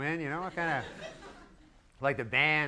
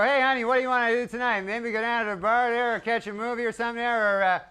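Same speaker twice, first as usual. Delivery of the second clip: lightly raised, brisk mock invitation to a wife; mock casual husband; 5 semitones higher than usual. Husband suggests a night out to his wife, light mock casual voice. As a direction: pitch a night out to your honey. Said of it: "you never hang around and go".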